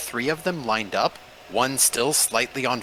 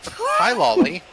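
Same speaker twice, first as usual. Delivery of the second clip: bright greeting; 6 dB louder, slower than usual. Acted. GM greets falling character brightly.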